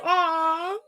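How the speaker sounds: put-on baby-talk pity, sarcastic; mock sympathy. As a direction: taunt a sore loser with fake sympathy. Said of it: "And I was like".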